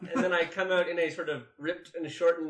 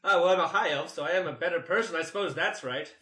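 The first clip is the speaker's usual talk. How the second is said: haughty elf lady. Acted. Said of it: "this is a haughty female".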